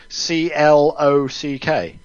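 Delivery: C L O C K spelled slowly, letter by letter; slow spelling out. Real, not acted. Co-host checking a misheard word, slow spelling. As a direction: spell C L O C K out deliberately.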